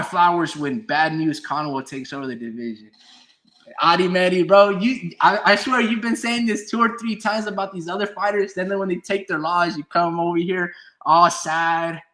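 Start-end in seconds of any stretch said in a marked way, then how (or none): 3.8-9.8 louder, higher callout; calling out. Real, not acted. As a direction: call him out by name. Calling out a chatter.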